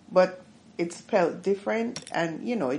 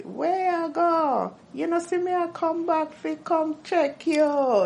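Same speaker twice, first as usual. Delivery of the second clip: downtown Kingston patois; 11 semitones higher than usual. Shown as a demonstration. Imitating downtown Kingstonians' dragged patois. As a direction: stretch each word like downtown Kingston. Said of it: "like the downtown Kingstonians".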